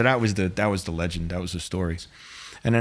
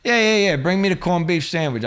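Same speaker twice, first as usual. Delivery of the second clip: sudden high, loud yeah yeah yeah; a hammed-up eager mobster ordering; 8 semitones higher, 3 dB louder than usual. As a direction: bark the order out, excited.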